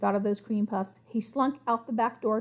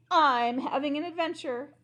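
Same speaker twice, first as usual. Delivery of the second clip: proud; 4 semitones higher than usual. Acted. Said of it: "said proudly".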